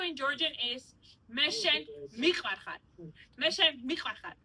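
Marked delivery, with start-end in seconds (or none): 1.3-2.8 "Meshen Mikvarchan" with "ch" as a throaty kh; slightly choked pronunciation. Shown as a demonstration. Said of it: "you have to suffocate a little bit". 3.4-4.3 "Meshen Mikvarchan" with "ch" as a throaty kh; slightly choked pronunciation. Shown as a demonstration. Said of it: "you have to suffocate a little bit".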